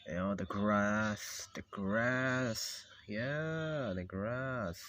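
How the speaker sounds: slow, stretched-out naming; dreamy narrating. Acted. Showing the character the drawn grass, slow dreamy narrating. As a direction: linger dreamily on each word. Drawing scenery, savouring each item.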